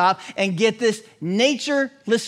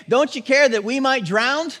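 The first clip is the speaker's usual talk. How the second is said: desperate plea; 6 semitones higher than usual. Retold or imitated. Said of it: "This is how they say it".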